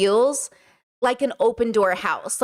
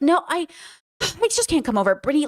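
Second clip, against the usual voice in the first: whiny sister-in-law; 6 semitones higher than usual. Retold or imitated. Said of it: "And she was just like".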